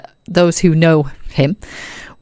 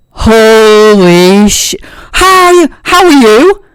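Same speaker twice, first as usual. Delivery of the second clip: loud, higher, amazed greeting; delighted surprise; 8 semitones higher, 7 dB louder, slower than usual. Acted. Ro spots Aragorn and shouts with delight. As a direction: shout with joy at an old friend. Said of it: "she's like".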